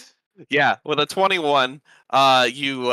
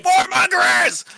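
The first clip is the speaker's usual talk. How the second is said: high, loud, drawn-out shriek; shouting gnome; 7 dB louder, slower than usual. Acted. Gnome yelling back at the Dragonborn, high shrieked accusation. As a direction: scream the accusation back, slowly stretched.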